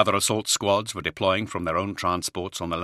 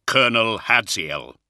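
slow, loud greeting called over the roaring wind; carrying over wind; 4 semitones higher, 6 dB louder than usual. A narrator's reading. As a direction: project it across a gale to the colonel. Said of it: "his powerful voice carrying easily over the roaring wind".

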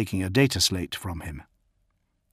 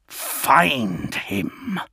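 slow, higher, forceful order; angry insistence; 5 semitones higher than usual. A narrator's reading. Lion cuts off Redloss's protest, angrily insistent. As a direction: cut off the objection with a drawn-out command.

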